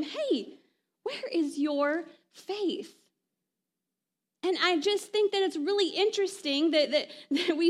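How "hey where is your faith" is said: gentle challenge. Retold or imitated. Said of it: "with a little bit of a challenge".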